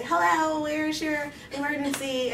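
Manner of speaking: high, singsong dispatcher greeting; phone operator. Retold or imitated. Emergency operator answering a girl's call, chirpy role voice. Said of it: "And this is the operator".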